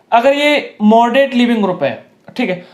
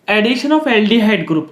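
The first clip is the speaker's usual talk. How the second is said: slow dictation; much slower than usual. Shown as a demonstration. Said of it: "teacher dictating a heading".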